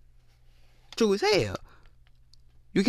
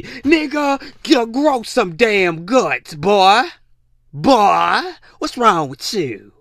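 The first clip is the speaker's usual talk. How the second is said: angry scolding; 4 semitones higher, much slower than usual. Real, not acted. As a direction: bark the order at a weak man. Scolding men.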